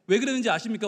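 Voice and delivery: usual speaking voice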